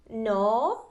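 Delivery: "no" drawn upward as a question; questioning tune. Shown as a demonstration. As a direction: let "no" rise at its end. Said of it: "you're making it a question".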